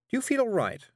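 high, flustered witch. Acted. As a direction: answer high and rattled. Witch dialogue.

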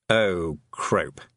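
low, croaky toad curse; toad swearing. A narrator's reading. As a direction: mutter it like a frog swearing. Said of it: "swearing in Toad".

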